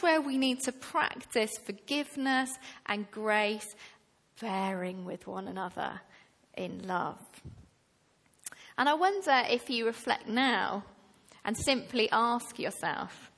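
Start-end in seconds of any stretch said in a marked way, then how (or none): none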